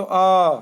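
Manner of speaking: अ held for two beats, a long "aa"; long vowel. Shown as a demonstration. Teacher showing students a dirgha अ, drawn out. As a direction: stretch अ to double length like a teacher. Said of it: "ये दीर्घ हो गया".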